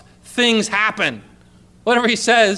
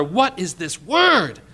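slow, wondering question; amazed; slower than usual. Acted. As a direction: draw it out in amazement. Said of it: "The people were amazed".

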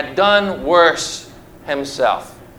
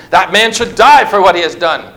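angry king; 6 dB louder than usual. Acted. David's angry verdict.

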